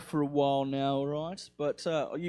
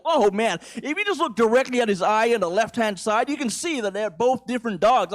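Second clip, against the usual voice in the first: lightly mocking white-person voice, higher; white dog lover; 5 semitones higher, 3 dB louder than usual. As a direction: put on an over-keen dog expert. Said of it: "but white people".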